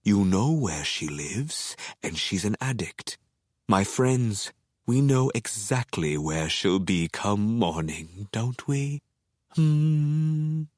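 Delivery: a hint of menace, slow and self-satisfied; muttering to himself. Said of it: "I tell myself".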